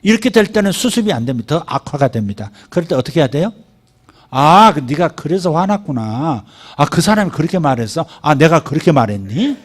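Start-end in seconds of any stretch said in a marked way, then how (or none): 4.3-9.6 understanding parent. Shown as a demonstration. Pastor models a parent's reply to an angry child, gently. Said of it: "이렇게 해주는 게 중요합니다".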